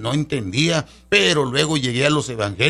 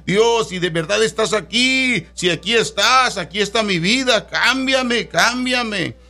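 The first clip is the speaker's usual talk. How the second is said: raised, earnest retelling of a desperate plea; pleading prayer; 4 semitones higher than usual. Retold or imitated. Man relives praying alone in the snow, pleading. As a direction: beg God to change you, voice lifted. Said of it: "Y yo le decía".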